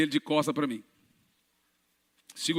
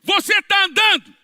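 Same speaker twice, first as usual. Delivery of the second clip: higher, louder triumphant yell; astonished shout; 13 semitones higher, 7 dB louder than usual. Retold or imitated. Pastor to healed man, loud higher triumphant cry. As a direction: shout it in delighted disbelief. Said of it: "falei assim, ó".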